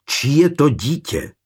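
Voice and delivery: high-pitched, despairing demand; desperate cry. A narrator's reading. Jiřík demanding to know the father, desperate cry. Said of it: "vykřikl zoufale".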